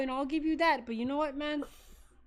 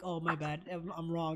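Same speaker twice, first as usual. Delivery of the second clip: mocking imitation; 8 semitones lower, 7 dB quieter than usual. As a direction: lower and softer, a limp mock apology. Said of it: "You're like".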